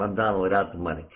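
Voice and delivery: rattled-off self-mocking joke; quick chuckling punchline. Shown as a demonstration. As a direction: toss the line off quickly with a laugh. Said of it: "because I do it like that".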